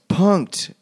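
high-pitched mock yell of the reveal. Ashton Kutcher jumping out yelling, high mock gotcha.

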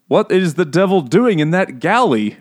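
a touch of a Dickens Frenchman; mock French character line. French characters in the book, lightly voiced. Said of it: "they say some weird shit".

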